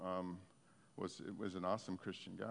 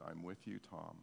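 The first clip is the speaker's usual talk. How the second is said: tender divine voice; 6 semitones lower, 9 dB quieter than usual. Retold or imitated. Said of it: "the voice of God".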